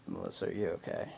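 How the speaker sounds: low, soft check on a sleeper; quiet, careful question; retold hushed concern. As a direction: ask softly without waking them.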